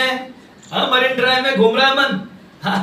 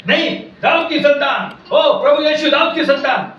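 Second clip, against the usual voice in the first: raised-pitch retold call to Jesus; imitated crying out; 3 semitones higher than usual. Blind Bartimaeus calls to Jesus despite the crowd, imitated crying out. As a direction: call out over those silencing you. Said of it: "बड़े बड़े जोर से चिल्लाने".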